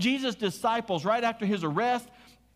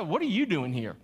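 judgmental tone. Retold or imitated. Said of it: "Like, in that tone of voice".

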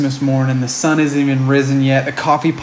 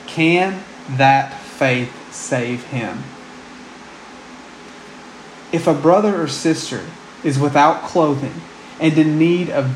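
scripture reading. Acted.

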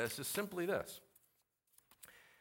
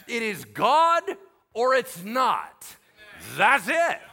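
louder, driving sermon; preaching at full force; 4 semitones higher, 6 dB louder than usual. Real, not acted. Pastor rebukes relativism to the congregation, loud preaching. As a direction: hammer the point home.

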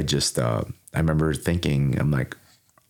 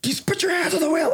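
much higher voiced dad giving a curt order. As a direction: bark the instruction like an annoyed father. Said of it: "he's like".

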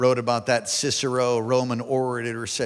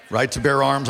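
RIGHT TO BEAR ARMS louder, punched out; emphatic repeat; 5 dB louder than usual. Real, not acted. Pastor prodding Alaskans for a response, louder emphatic repeat. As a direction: say it again to get a response. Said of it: "I'm gonna say it again".

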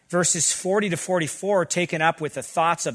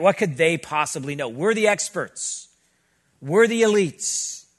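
mock snobbery; 3 dB louder than usual. Mocking coastal elites' snobbery.

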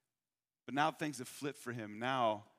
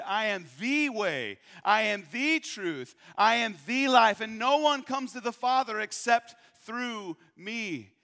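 emphatic proclamation; 6 semitones higher, 8 dB louder than usual. Shown as a demonstration. Preacher correcting the misquote, proclaiming Jesus' words loudly. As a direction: proclaim it, building with each "I am". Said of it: "No, Jesus said".

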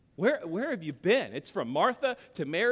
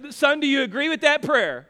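dad asking son; 6 semitones higher, 5 dB louder than usual. Retold or imitated. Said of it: "And then I say".

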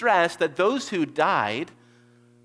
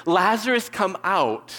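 Jesus calling into the tomb, higher and louder; loud cry; 7 semitones higher, 7 dB louder than usual. Retold or imitated. Jesus to dead Lazarus at the tomb, commanding loud cry. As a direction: call the dead man out with authority. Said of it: "he cries out with a loud voice".

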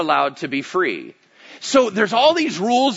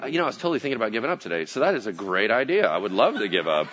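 put-on French accent; 9 semitones lower, 5 dB quieter, much faster than usual. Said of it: "first accent that popped into my head".

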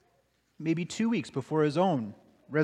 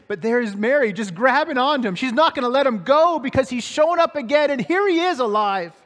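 louder, higher preaching burst; preaching at full force; rising excitement; 7 semitones higher, 6 dB louder than usual. Real, not acted. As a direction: lift the room with joy. Preacher climaxes on joy.

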